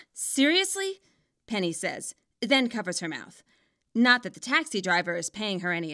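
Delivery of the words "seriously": surprised outburst. Acted. Penny's startled reaction to the text.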